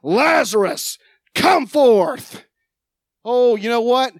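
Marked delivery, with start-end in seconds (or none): 0.0-2.5 loud command, rising on forth; Jesus calling Lazarus out of the tomb, a loud command. Acted. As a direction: call him out of the tomb. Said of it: "and he goes".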